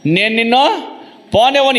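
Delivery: acting out stubborn resolve; defiant refusal, acted. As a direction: refuse to let go, voice climbing. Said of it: "ఈయన ఏమంటాడంట".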